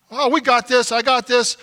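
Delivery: swaggering self-assurance; mock macho bravado. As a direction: brush off help like a proud man. Men refusing help, mock bravado.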